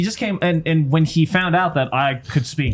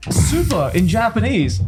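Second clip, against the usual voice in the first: raised, eager mimicry of the guide; high voice, slowly explaining the joke; imitating Mario; 6 semitones higher, slower than usual. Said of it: "And he's like".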